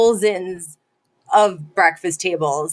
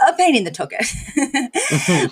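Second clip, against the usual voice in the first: laughing quote; 4 semitones higher, slower than usual. Retold or imitated. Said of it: "And he goes".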